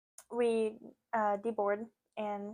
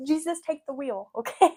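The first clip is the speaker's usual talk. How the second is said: light, laughing plea, higher and tossed off; laughing, casual; 5 semitones higher, 6 dB louder than usual. Shown as a demonstration. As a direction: say it laughing, like a friendly aside. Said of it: "but, like".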